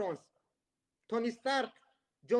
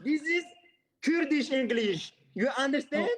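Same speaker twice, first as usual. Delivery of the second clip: slow, slightly raised Kurdish-accented English; English with a Kurdish accent, drawn out; 3 semitones higher, 3 dB louder, slower than usual. Real, not acted. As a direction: announce it proudly in a Kurdish accent. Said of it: "Kürt şivesiyle İngilizce konuşuyorum".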